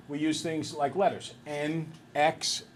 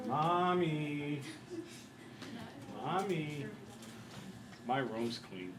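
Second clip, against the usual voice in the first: put-on sweet child; 2 semitones higher, 6 dB quieter, slower than usual. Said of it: "Go up to Mom and say".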